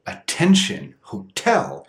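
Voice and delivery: "attention, hotel" with a full T on the stressed syllable; normal stressed T. Shown as a demonstration. Teacher contrasting with the flap, normal T in "attention, hotel". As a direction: hit a clear, unflapped T in "attention, hotel". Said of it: "if the T is in a stressed syllable".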